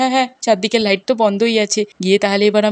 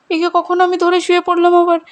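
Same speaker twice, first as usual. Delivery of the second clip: aghast; 7 semitones higher than usual. Acted. Minu wakes up, horrified.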